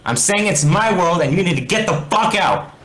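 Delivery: very high, loud yell. Acted. Alex yelling at Steve to leave. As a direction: yell at him to get out. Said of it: "She didn't actually say that".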